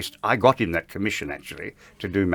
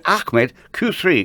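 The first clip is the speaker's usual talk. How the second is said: very slow, higher, drawn-out call; retold impatient call to the operator; impatient cue; 10 semitones higher, 5 dB louder, much slower than usual. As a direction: stretch every word, losing patience. Cue not happening, calling again.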